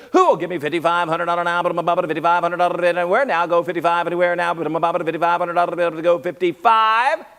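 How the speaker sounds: fast auction patter; auctioneer. Acted. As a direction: rattle off bids quickly.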